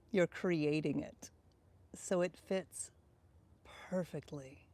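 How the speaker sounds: soft, unhurried guiding voice with long pauses; guided visualization. Real, not acted. Speaker leading listeners to imagine their dream future, guided visualization. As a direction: invite them gently into the picture, pausing often.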